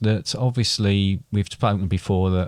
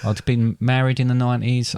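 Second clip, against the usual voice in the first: higher voice, struggling to stay composed; really holding back emotion; holding it together; 4 semitones higher than usual. Real, not acted. Dad recalling how his life changed, holding himself together. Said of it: "Well done holding yourself together there".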